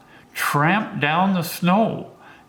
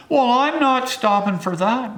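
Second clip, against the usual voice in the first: a high, stage Irish brogue, louder; Irish accent; 9 semitones higher, 3 dB louder than usual. Retold or imitated. Settler refusing to stop for the snow, in a hammed-up Irish accent. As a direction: play him as a stubborn Irishman in a thick Irish accent. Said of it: "in his Irish accent".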